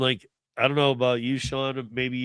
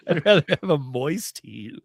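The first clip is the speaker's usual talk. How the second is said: "moist heat" said through laughter; laughing; 3 semitones higher than usual. Shown as a demonstration.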